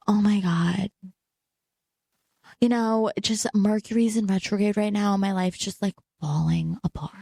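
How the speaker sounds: lightly voiced dramatic girl, blaming the planets; a hint of a whiny influencer sighing about her life; lightly mocking the girls who blame Mercury; mock whiny astrology girl. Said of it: "they all sound like this".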